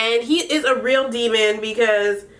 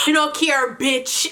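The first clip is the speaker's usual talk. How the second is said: mock Jamaican Patois, higher and dismissive; 4 semitones higher than usual. Imitating Jasmine dismissing Spice in Jamaican Patois. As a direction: repeat it in a put-on Jamaican Patois. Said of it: "cussing in Patois".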